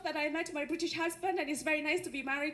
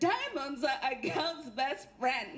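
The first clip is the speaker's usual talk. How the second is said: Elizabeth Taylor; 4 semitones lower, slower than usual. Retold or imitated. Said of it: "it was Elizabeth Taylor that said".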